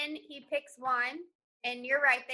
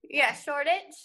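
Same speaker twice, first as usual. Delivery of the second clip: put-on a light, half-hearted British accent; barely-there London accent, pretending; mock British accent; 6 dB louder than usual. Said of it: "in your British accent".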